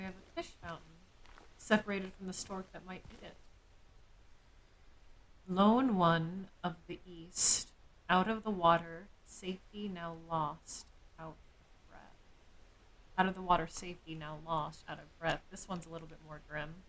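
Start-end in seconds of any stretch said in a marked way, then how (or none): 5.5-12.0 slow, grave recital fading to a breathless whisper; slow ominous poem recital; dramatic poem reading. Shown as a demonstration. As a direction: read it like an ominous verse, trailing to an unvoiced end.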